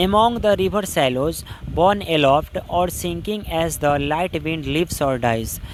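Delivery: very slow, measured reading of verse; slow classroom recitation of a poem. Shown as a demonstration. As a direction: read each poetic word slowly and deliberately. Teacher recites poem lines.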